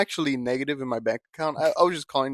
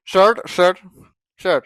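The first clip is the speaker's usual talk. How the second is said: put-on Indian accent; 2 semitones higher, 5 dB louder, slower than usual. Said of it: "you also have an Indian accent".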